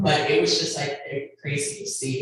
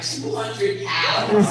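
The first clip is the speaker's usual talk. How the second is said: lightly mimicking the suitor; 5 semitones higher, 5 dB louder, much slower than usual. Suitor's offer quoted.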